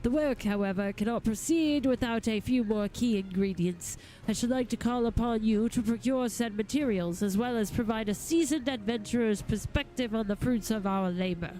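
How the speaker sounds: lightly voiced courtly gentleman, eloquent and eager; a hint of a grand lord addressing helpers; formal gentleman goldsmith. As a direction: read it as a formal, well-spoken master craftsman. Reads a game figure's dialogue.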